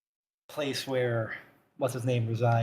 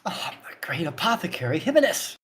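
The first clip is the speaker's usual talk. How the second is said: put-on whispered old man; 4 semitones higher than usual. Old apothecary whispering his grand title.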